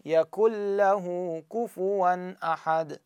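يكن له slow, glided straight from ك to a doubled ل; tajweed demo. Shown as a demonstration. Teacher showing how the نون disappears. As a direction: say يكن له as يكلّه, slow and drawn. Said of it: "أنتقل من الكاف لللام".

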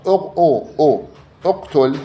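high, isolated "uq, u" before اقتل; teacher isolating the first vowel of اقتل; damma sounded out. Shown as a demonstration. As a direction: break off the opening "u" of اقتل, then the word. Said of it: "شوف".

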